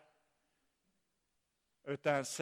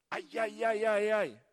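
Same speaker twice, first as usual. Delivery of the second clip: mock-dismayed ay-ay-ay; acted wince at an awkward realisation; embarrassed dismay; 4 semitones higher than usual. Saul realises whom he resembles, in embarrassed mock dismay. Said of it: "Det här är ju pinsamt".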